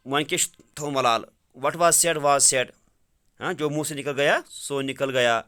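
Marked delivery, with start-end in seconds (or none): 1.6-2.7 slow, emphatic classroom reading; slow reading aloud. Shown as a demonstration. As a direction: read it slowly for the students. Teacher rereads the English line. (آہستہ آہستہ پڑھنا)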